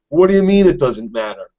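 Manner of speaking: mildly indignant imitated question; offended retort. Son challenging his father over the killed woman, offended. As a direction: act out a touch of affront. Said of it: "he's supremely offended by that".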